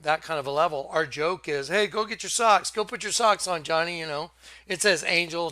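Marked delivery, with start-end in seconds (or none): 1.7-4.0 raised, louder mock order; joking call-out. Friend telling Johnny to get ready in their inside joke, joking call-out.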